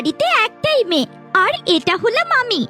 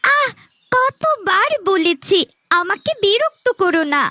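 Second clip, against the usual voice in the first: irritated. Acted. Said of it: "আমার মেয়েটাকে রাগিয়ে দিন".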